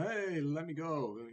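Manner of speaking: lightly acted high plea; a hint of a caught dog's protest; pleading little dog. Little dog in the wolf's jaws, lightly acted plea.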